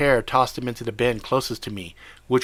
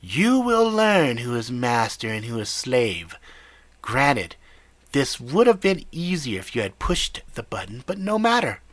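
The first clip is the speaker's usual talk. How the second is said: menacing. Acted. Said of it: "a menacing tone in his voice".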